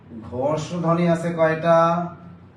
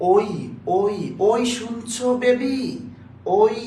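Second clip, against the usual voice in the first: slow, higher sing-song call to a sweetheart; playful calling; 4 semitones higher, much slower than usual. Shown as a demonstration. Teacher to students showing everyday ওই, a slow teasing call.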